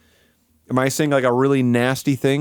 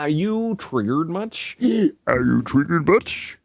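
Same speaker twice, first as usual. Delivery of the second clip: mock taunt; 2 semitones higher, slower than usual. Mocking taunt, repeated.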